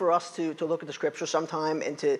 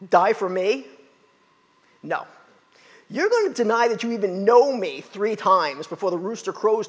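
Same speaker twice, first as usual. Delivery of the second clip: a hint of sarcasm; 3 semitones higher, 4 dB louder than usual. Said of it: "a hint of sarcasm".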